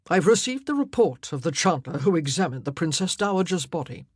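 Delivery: a touch of grave authority; grave king. Acted. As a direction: report serious news firmly. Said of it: "he said, his face grave".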